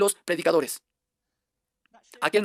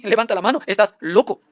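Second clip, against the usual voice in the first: loud jab; 6 dB louder than usual. Acted. Preacher jabs at the crowd.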